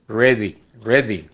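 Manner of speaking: ready with a hard Spanish d; ready said the Spanish learner's way; wrong Spanish d. Retold or imitated. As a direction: mistaken d in ready. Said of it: "Eso no es así".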